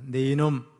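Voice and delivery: tipsy father's slurred scolding; drunk slurring. Retold or imitated. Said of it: "혀가 다 꼬부라진 목소리로".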